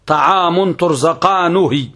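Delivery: slow "ترزقانه" ending -nuhi; drawn-out "ترزقانه", u after the nun; nun with damma. Shown as a demonstration. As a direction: recite "ترزقانه" slowly as turzaqaanuhi. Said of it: "بضم النون".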